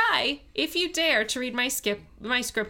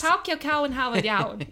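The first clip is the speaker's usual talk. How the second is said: New Orleans Yat, cow for car; light Yat accent demo. Shown as a demonstration. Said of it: "This statement in Yat would be".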